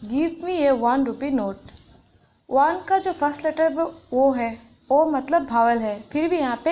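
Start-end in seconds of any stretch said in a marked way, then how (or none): 0.1-1.7 slow, carefully spaced words; teacher dictating an example, slow; slow example reading. Shown as a demonstration. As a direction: read the example slowly for the class. Example sentence read out.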